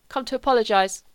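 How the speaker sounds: put-on loud, lurching drunk announcement; drunken outburst. Drunk son bursting in on family, loud.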